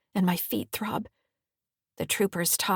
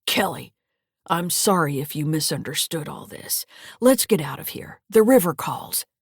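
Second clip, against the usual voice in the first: hoarse voice; 2 semitones lower than usual. Acted. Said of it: "He coughs and says in a hoarse voice".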